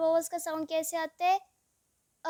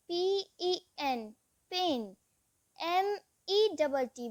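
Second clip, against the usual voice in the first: slow spelling; slower than usual. Shown as a demonstration. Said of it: "short vowels में pronounce".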